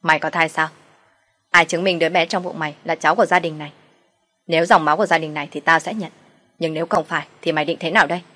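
contemptuous, mocking challenge; a mother-in-law sneering at the mistress's pregnancy claim; scoffing. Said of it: "cười khẩy đáp".

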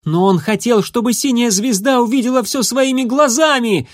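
a heated, high-pitched yell. Acted. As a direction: yell it in frustration. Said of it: "заорал Дымок".

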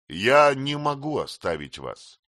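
plain reading voice

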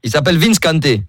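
put-on invented African accent. Prank caller telling Coralie his new wife comes, in a mock Senegalese accent. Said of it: "j'ai inventé un accent".

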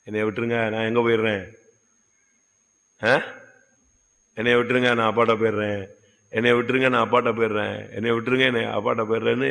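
soft, pleading boy's cry, lightly voiced; a hint of a sobbing boy in the pit; crying plea. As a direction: beg quietly to be let go, a mild imitation. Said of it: "அழுதானாம்".

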